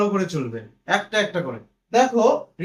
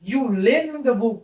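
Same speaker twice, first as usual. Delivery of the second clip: slow dictation; much slower than usual. Shown as a demonstration. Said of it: "here is the book".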